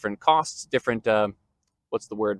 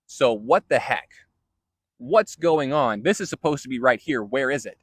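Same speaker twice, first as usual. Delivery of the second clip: casual lost keys; 3 dB louder than usual. Retold or imitated. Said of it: "what this kind of where is in the Hebrew is".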